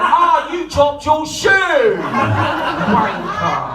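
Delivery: slow jeering Portsmouth cat; mocking cat's note. Cat taunting the shoe thrower, jeering. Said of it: "a note in there going".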